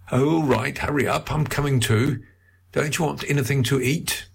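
put-on a brisk, fussy older husband hurrying her along; husband calling after his wife up the stairs, high and bustling. Husband fussing cheerfully.

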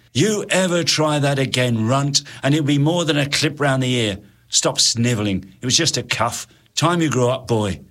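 put-on a sergeant scolding a child; lightly voiced bully of a soldier; gruff sergeant. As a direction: sergeant cuffing the boy and sneering.

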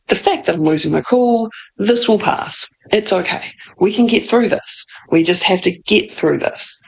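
ordinary talk

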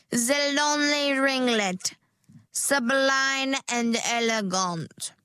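slow, dreamy sales voice; gushing stylist. Acted. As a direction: present it grandly. Stylist presents a hairstyle.

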